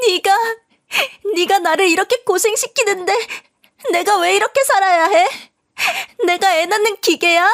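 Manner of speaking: high, wailing tearful complaint; crying out. Acted. New wife collapsing in the hospital, crying at her husband. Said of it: "주저앉아서 울기 시작했어요".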